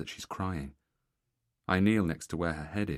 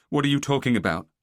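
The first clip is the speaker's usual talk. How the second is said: shocked outburst; 7 semitones higher, 9 dB louder than usual. Acted. Husband shocked, raised voice.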